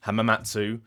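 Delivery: Hamamatsu with the ending softened to "too"; variant pronunciation. Shown as a demonstration. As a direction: another English-style "Hamamatsu", final oo kept. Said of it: "you have people pronouncing it".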